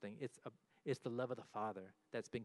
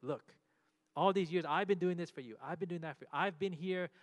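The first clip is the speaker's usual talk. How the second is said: louder, higher, indignant listing of his work; a resentful son throws his years of work back at his father; angry resentful son; 4 semitones higher, 5 dB louder than usual. Retold or imitated. Resentful older son, raised angry voice. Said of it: "out of his anger".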